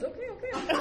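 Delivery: high, loud backing down; retold hasty surrender. Security guy backing down from her tirade, high and loud.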